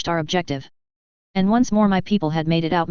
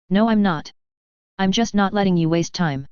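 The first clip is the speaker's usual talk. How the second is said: lightly voiced haughty noble, with a twang; snooty noble voice. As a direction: put on a snooty aristocrat's twang. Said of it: "putting a certain twang in my voice so I sounded like some snooty noble".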